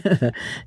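small acted ladylike laugh; light laugh. Lady shrugs off the question with a soft laugh. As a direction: laugh it off softly.

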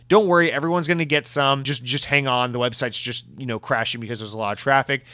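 imitating a soothing corporate tweet, easing down; mock-reassuring, trailing down; mock reassurance. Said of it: "as if to reassure".

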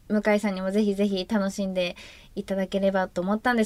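rattled off in a single breath; all in one breath. Real, not acted. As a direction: rush it out without pausing. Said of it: "すごい、すごい早口で、今、一息で喋りましたけどね". (一息の早口で)

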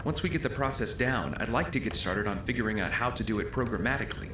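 distant muffled voices; overheard through a door. Acted. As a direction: heard from outside the room.

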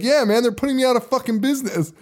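high-pitched imitation of an aggrieved man; Chocolate Chip Charlie. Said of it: "Charlie's like".

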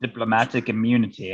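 put-on light South African accent, Lethal Weapon villain; a hint of a South African accent. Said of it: "I have to say with a South African accent".

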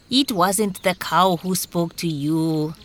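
lightly voiced slow dog character; a hint of a talking dog. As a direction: correct him slowly as the dog.

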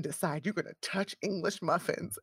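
words breaking into laughter; laughing through words. Real, not acted. Friend retelling her own outburst, laughing through words. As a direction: laugh as you finish the question.

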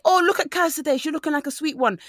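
mock guy praise. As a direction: ham up a lad fawning.

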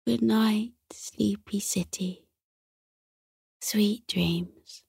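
yawning goodnight, trailing off softly; drowsy fading goodnight; sleepy whisper. A narrator's reading. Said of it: "he yawned again".

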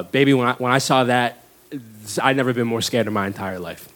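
lightly voiced mom, earnest; mom's quote. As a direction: recall a scare in a low voice. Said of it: "She's like".

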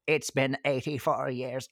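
put-on slow, wistful old woman's voice; Old Rose. Quoting the film's elderly heroine, slow old-woman voice. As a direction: draw it out like an aged survivor. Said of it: "Old Rose".

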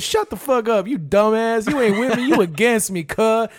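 high-pitched imitated telling-off; retold street-argument attitude; mock angry cursing. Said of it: "some hard".

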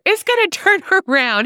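can't get the words out for laughing. Real, not acted. Cold-stuffed friend on the phone, laughing mid-sentence. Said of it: "can't even finish laughing".

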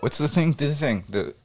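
ordinary talk, nothing marked

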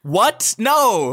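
sharp high shocked no; mock shock at the proposal. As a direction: recoil in disbelief.

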